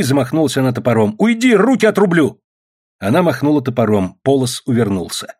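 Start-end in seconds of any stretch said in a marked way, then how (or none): 1.2-2.4 high-pitched desperate threat; raised, frantic warning; fierce threat. A narrator's reading. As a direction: threaten an attacker to keep them back. She threatens attacker with an axe.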